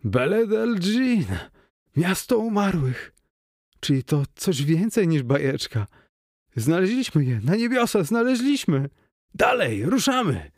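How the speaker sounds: high, ecstatic cries of discovery; triumphant, rising excitement; thrilled shouting. Acted. Clarney thrilled at finding city. (wysokie, ekstatyczne okrzyki odkrywcy)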